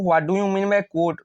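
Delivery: slow exam-question reading. Shown as a demonstration. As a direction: read the question very slowly, word by word. Slow reading, then repeated plainly.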